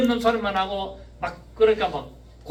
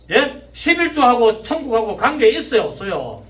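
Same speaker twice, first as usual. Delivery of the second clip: raised, pressing sermon questions; loud preaching challenge; 5 semitones higher, 7 dB louder than usual. Real, not acted. Preacher challenging link of tithe and heaven, loud preaching. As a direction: hurl the questions at the congregation, loud and high.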